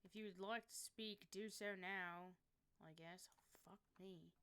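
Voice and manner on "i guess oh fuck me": whispered aside under the breath. Real, not acted. Streamer muttering while fixing the chat box, whispered. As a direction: breathe it out to yourself.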